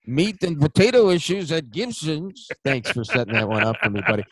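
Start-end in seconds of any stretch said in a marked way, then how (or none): 0.0-2.5 lightly voiced slow cop; a hint of a hard-boiled cop; tough cop. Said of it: "can you do that in a cup voice".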